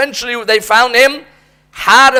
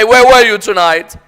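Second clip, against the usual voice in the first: stern parent; 4 dB louder than usual. Retold or imitated. Parent questioning child, repeated.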